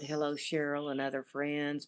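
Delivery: normal talking voice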